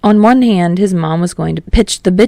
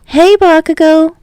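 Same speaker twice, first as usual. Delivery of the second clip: a higher, louder call across the room; 11 semitones higher, 5 dB louder than usual. Acted. Toshiko calling to Bakugo from the living room, higher and louder. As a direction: hail him from the other room. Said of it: "a call of".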